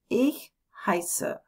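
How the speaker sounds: "Ich heiße" whispered with no voice; whispered answer. Shown as a demonstration. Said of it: "you answer".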